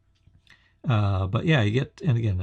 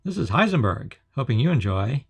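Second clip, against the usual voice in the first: Heisenberg voice changer; 3 semitones higher than usual. Real, not acted. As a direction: speak through a voice changer helmet. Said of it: "Voice changer activated".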